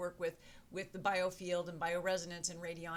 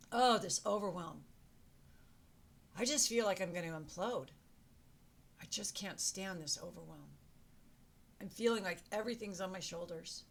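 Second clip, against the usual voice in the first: mock overwhelmed. Shown as a demonstration. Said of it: "tap along with me and say it".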